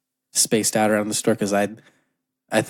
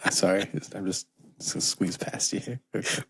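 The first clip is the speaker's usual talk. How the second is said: polite customer; 2 semitones lower, 7 dB quieter than usual. Acted. Acted customer squeezing past interview.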